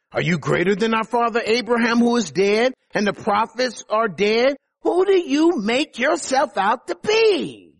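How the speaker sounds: rising, incredulous questioning; indignant challenge. Acted. The Jews challenging Jesus' claims, acted indignation. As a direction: build to a high, stretched final challenge.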